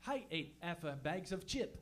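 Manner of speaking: put-on French-accented English with misplaced H's; mock French speaker mangling English. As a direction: add an H to "ate", drop it from "half", French style. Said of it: "they don't know where H's go".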